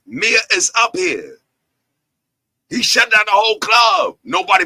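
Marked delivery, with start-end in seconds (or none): 2.7-4.6 shouted and proud; hype shout. Real, not acted. Bragging to the crowd about the show, shouting. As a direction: call it out like a boast.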